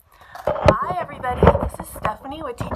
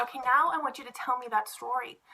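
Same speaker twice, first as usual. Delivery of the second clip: whispered instruction; 5 dB quieter than usual. Retold or imitated. Teacher quoting her instructions.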